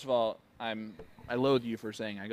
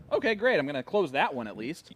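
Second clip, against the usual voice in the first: imagined upbeat reaction; 3 semitones higher, 5 dB louder than usual. Retold or imitated. Commentator voicing a dart player after a hat trick, upbeat. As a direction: voice a player's pleased snap decision.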